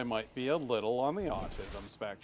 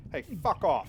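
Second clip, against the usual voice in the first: mock Matt Berry bellow, higher and louder; Matt Berry shout; 6 semitones higher, 6 dB louder than usual. Streamer quoting the IT Crowd boss, mock shout. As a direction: hurl it like an outraged boss.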